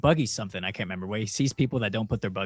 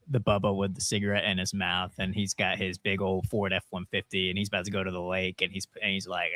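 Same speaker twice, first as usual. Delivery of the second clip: redneck Bubba voice; 4 semitones lower, 6 dB quieter than usual. Retold or imitated. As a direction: talk like a Bubba with a smoke in his mouth. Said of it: "That's a good voice".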